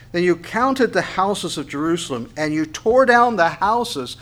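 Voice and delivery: slow, emphatic Bible reading; scripture reading. Acted. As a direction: read the verse out slowly with weighty stresses. Reads the verse again.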